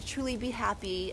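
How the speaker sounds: tearful farewell; holding back tears. Real, not acted. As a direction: choke up but push through the words. Softer sincere repeat.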